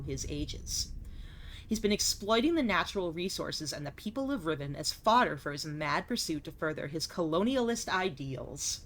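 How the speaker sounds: measured, solemn journal reading; journal narration. Acted. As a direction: read it like a diary entry. Reads game journal aloud.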